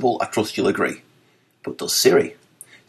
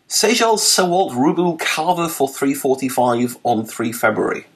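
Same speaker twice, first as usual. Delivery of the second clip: reading Siri's garble; 4 semitones higher than usual. Retold or imitated. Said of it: "was her first guess".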